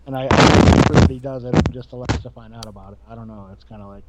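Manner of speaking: fading, staticky audio; bad audio line. Real, not acted. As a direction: voice dropping away on a bad line. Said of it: "something just happened with your audio".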